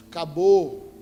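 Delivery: acabou blurted out loud; loud give-up. Retold or imitated. (acabou dito alto e definitivo)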